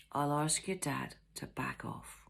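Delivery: slow, soft whisper. Acted. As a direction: reassure him quietly, slowly. Mother whispers reassurance.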